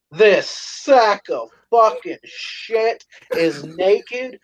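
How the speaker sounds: high, slow mock-drunken rant; hammed-up drunken outrage, words stretched out; drunk friend ranting. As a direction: imitate a wasted pal's exasperated tirade. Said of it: "you would have thought he drank ten gallons of fucking vodka".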